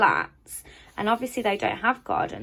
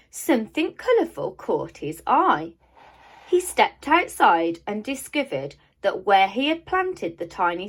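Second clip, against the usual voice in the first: put-on lively read-aloud to children; storybook narration. A narrator's reading. Teacher reading a storybook aloud to children, lively and expressive. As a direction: read it like a bedtime picture book. Reads picture book aloud.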